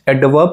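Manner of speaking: एडवर्ब with the R dropped; silent R. Shown as a demonstration. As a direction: end एडवर्ब in "wob", no R. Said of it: "silent होता है". (एडवर्ब में आर silent)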